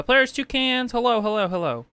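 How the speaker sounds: a lilting, lingering welcome. Real, not acted. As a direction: stretch the name out playfully. Drawn-out sing-song greeting.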